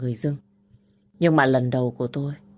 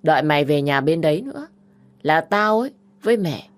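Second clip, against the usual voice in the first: put-on loud, brazen older sister; defiant admission; 2 semitones higher, 5 dB louder than usual. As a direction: admit taking money without shame.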